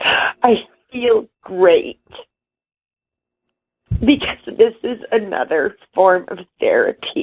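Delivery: tearful speech while crying. Speaker sharing their emotions with listeners, crying while talking. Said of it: "tears streaming down my face".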